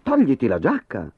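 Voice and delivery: togliti la giacca as a firm, stern order. Acted. Teacher ordering pupil to remove jacket, sternly. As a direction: give the order with no smile now. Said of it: "disse severamente".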